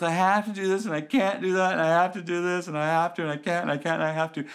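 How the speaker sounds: mock helplessness. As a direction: imitate someone piling up helpless excuses.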